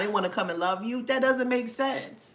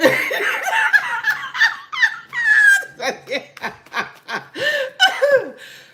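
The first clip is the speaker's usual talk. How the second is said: loud high cackling laugh; 9 dB louder than usual. Real, not acted. Long laugh.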